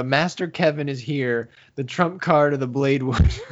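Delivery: a hint of a dramatic anime hero; heroic proclamation. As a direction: announce yourself like the saviour arriving. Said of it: "And he says, the best line of the manga".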